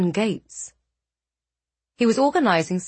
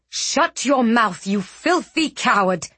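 snapping; 3 semitones higher than usual. Acted. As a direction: spit the insult out. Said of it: "Riel snapped".

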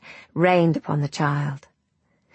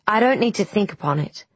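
eager; 4 semitones higher, faster than usual. Acted. Queen chooses at once.

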